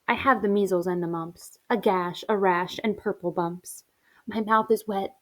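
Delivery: put-on measured, rhythmic recital of children's verse; expressive poem reading. Teacher reading poem to class, rhythmic complaint. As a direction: read each ailment as a list.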